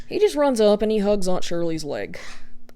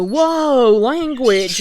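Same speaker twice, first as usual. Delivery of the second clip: shocked relatives; 5 semitones higher, 5 dB louder, much slower than usual. Retold or imitated. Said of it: "all go".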